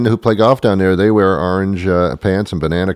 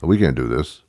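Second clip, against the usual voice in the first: low, muttered censor voice; mock office worker; 7 semitones lower, 4 dB quieter than usual. Facebook staffer vetting videos in Cherry Hill, low mock mutter. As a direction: play a fussy content checker. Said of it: "watching all the videos saying".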